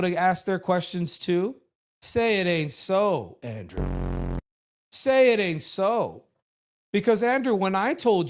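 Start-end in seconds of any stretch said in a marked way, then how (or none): 2.0-6.2 slow, sing-song mock pleading; mock lament. Teasing Andrew in front of chat, a slow mock lament. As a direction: drag it out like a sad tease.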